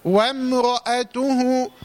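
وامرأته slow, with a light وم and a heavy ر; slow correct recitation. Shown as a demonstration. Teacher models the correct reading. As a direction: stretch وامرأته, keep وم light. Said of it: "أقول إيه بقى؟".

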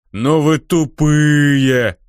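slow, loud mocking guffaw; loud jeering laugh at dumb orcs. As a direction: bray it out with a horse laugh. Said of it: "заржал правая рука".

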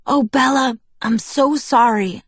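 high, loud rush of remorse; hurried apology. A narrator's reading. Jacob apologizes to Bella on the phone, remorseful. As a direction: plead your apology with feeling. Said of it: "He tripped over the words as he hurried to get them out".

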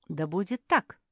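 loud, solemn declaration; proclaiming. A narrator's reading. Fairy granting the wish, proclaiming. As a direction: announce it like a spell being sealed. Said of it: "объявила волшебница".

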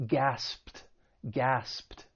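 gasped ending in a crisp voiceless pt. Shown as a demonstration. Teacher modelling past tense, gasped with final T sound. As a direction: say gasped as one syllable, gaspt. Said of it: "the E D is going to take on a T sound".

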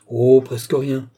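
slow, airy understatement; offhand. A narrator's reading. Richelieu playing down his gift to the baron, offhand. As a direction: toss it off with exaggerated casualness. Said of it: "fit négligemment Richelieu".

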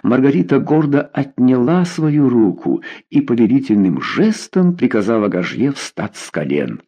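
ordinary delivery

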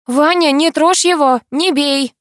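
high frightened plea; girl crying out in panic; desperate cry. A narrator's reading. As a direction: plead with Vanya to stop. Girl cries out in fight.

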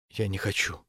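hollow, withdrawn, barely voiced; muffled voice. A narrator's reading. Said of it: "сказала глухим голосом". (глухим голосом)

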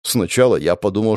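ordinary delivery

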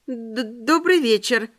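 slow stammered greeting; stuttering. Acted. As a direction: trip over the first word. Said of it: "прозаикалась я".

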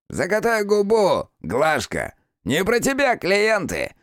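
fatherly smirk. Acted. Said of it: "Поотечески усмехнулся Захаров".

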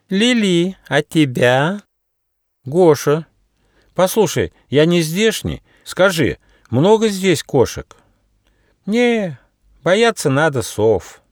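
high little mouse voices, lively; little mice chatting. Acted. Two mice getting acquainted in the forest, high and lively.

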